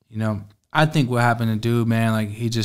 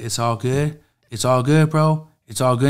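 frantic, louder repeats of it's all good; rattled, trying to convince himself; panicky; 3 semitones higher, 7 dB louder than usual. Retold or imitated. Dealer with a gun losing it in the car, frantic and loud. Starts tripping.

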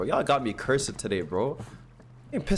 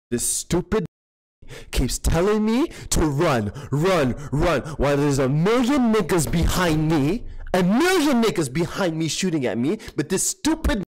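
frustrated rant. Real, not acted. Ranting at game companion.

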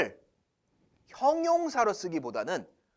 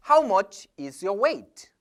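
slow example; much slower than usual. Shown as a demonstration. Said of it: "자, 이 세 번째".

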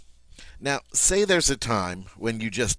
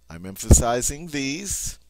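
THESE raised and stressed at the end; emphatic stress; 3 semitones higher, 4 dB louder than usual. Shown as a demonstration. Teacher showing learners which word is bolded, emphasis landing on THESE. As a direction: push up on THESE. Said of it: "so you know I'm emphasizing it".

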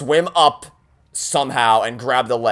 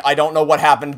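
usual speaking voice

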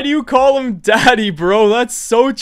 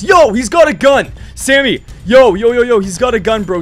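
urgent, raised-voice alarm; alarmed warning; 5 dB louder than usual. Pretend. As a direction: warn your friend about a gun, voice jumping up. Warns friend of a gun.

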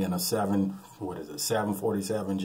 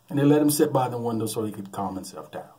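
usual speaking voice

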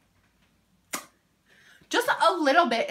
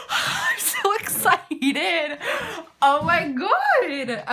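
high, stretched-out giddy squeal; gasp, then draw every word out high with excitement; overexcited; 6 semitones higher, 4 dB louder, much slower than usual. Real, not acted. Opening a new Becca highlighter, squealing with excitement.

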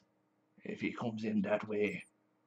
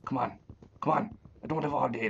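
raised, higher-pitched exasperation; impatient; 4 semitones higher, 5 dB louder, faster than usual. Real, not acted. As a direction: hurry it along crossly. Impatient with the game.

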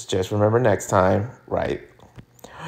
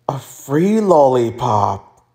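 awed delight; slower than usual. Acted. Gasp then marveling at lollipop.

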